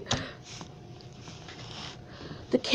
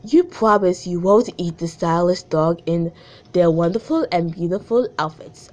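lower-pitched, British-sounding attempt at French; French accent slipping British; 6 semitones lower than usual. Shown as a demonstration. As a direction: put on a botched French accent that turns British. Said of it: "Oh my god, it's British".

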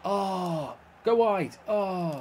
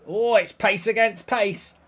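usual speaking voice

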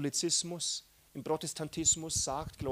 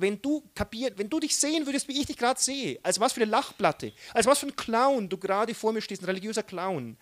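high, amused mockery of a religious clown; God mocking; 4 semitones higher than usual. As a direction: tease him the way God laughs at a clown. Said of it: "er sagt".

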